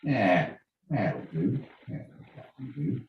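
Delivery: quiet, mock Australian grunt of agreement; Australian accent. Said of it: "they got Australian accents right there".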